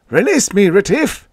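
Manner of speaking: high, loud alien voice; agitated alien pleading to be let go; lisping alien. A narrator's reading. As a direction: pitch it way up, urgent and loud. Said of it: "the pale-featured alien lisped".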